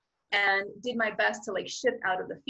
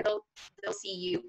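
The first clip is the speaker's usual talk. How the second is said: higher, light joking tone; mock officer voice; 11 semitones higher, 4 dB quieter than usual. The officer waves the tourists away with a high amused quote. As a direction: toss it off, amused.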